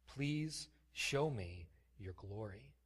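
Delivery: slow, soft pleading request; soft slow plea to God; tender plea. Acted. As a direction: ask it gently and slowly, like Moses begging. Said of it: "Moses said".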